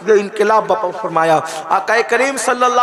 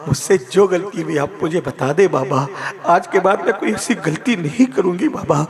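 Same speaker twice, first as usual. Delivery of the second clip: tearful pleading; 4 semitones lower than usual. Acted. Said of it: "رو کر کہتی".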